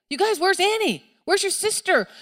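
put-on urgent, high-pitched questioning of the kids; worried mom acted out, voice high; alarmed parent. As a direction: demand answers, pitch jumping up in alarm. Parent searching for lost child.

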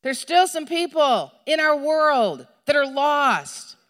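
high, loud, emphatic declaration; adamant refusal. Acted. Preacher urges believers not to give up, adamant outcry. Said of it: "something in us to be like".

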